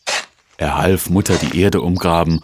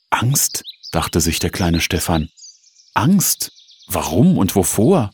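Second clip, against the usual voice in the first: verwundert. Acted. Junge fragt sich verwundert.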